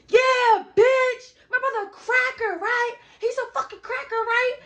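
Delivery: high, loud gloating yell; hyped shout. Retold or imitated. Hyped taunt after brother arrives.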